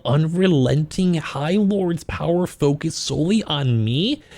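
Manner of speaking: slow, hushed romance-novel read; story narration. Acted. Reading smut aloud.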